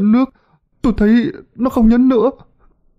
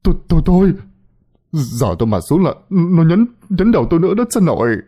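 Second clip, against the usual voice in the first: high, hurried stammering protest; scared high-pitched pleading; panicked refusal; 6 semitones higher, faster than usual. A narrator's reading. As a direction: refuse frantically in a frightened whine. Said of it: "lắc đầu li lịa mà nói".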